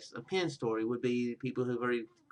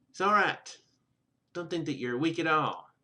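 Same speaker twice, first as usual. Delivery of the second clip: chiding, reproving, admonishing tone; 3 semitones higher than usual. Reading a character's reassuring line to a frightened girl: admonishing tone. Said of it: "she says this with an admonishing tone".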